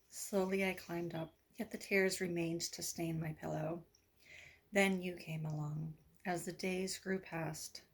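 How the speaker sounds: measured recital, each phrase set apart; poem reading. Acted. Poet reads of newfound hope, measured recital.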